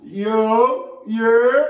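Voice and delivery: a clipped, loud New York "yo"; a mock New Yorker greeting you; New York accent. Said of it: "New York and shit where they just be like".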